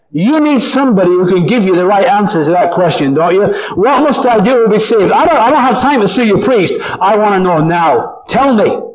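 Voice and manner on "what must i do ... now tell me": higher, pressing voice of a dying man; urgent plea. Acted. Dying man urges the preacher, a lightly voiced plea. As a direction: beg for the answer with no time left.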